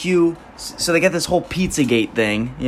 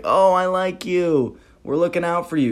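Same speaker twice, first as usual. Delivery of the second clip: fake friendly; 5 semitones higher than usual. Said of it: "where you're like".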